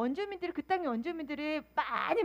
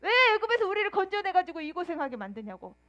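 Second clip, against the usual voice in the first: crying complaint; 3 semitones higher than usual. Retold or imitated. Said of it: "막 울면서 원망하면서 땅을 치면서".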